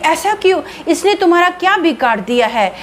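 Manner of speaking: mother-in-law asking. Acted. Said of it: "Meenakshi की सास बोलती है".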